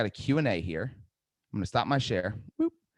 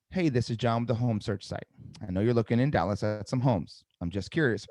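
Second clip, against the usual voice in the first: no tonality; 2 semitones lower than usual. Shown as a demonstration. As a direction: rattle off the script with no empathy. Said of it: "I'm not doing it that way".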